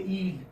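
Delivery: "yield" said as "eeld", y dropped; "yield" begun on a bare ee vowel; common mispronunciation. Shown as a demonstration. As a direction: drop the y glide at the start of "yield". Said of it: "they would say yield".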